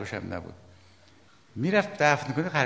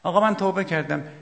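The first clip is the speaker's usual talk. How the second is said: loud, higher, pleading cry; pleading repentance; 5 semitones higher, 6 dB louder than usual. Retold or imitated. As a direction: cry it out to the imam like a sinner begging. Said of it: "رفت در خانهٔ اهل بیت".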